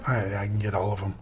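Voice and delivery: quick half-whispered boast. Real, not acted. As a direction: hush it out fast.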